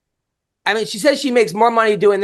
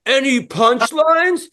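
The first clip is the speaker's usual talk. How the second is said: slow mock Bill Dawes; 3 semitones higher, much slower than usual. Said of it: "And then he goes".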